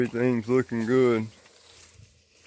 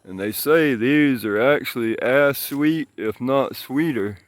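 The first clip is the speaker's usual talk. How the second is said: slightly slurred, stitches in mouth; slurring from mouth stitches. Real, not acted. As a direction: talk around fresh mouth stitches. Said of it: "I'm slurring, guys. I got stitches in my mouth".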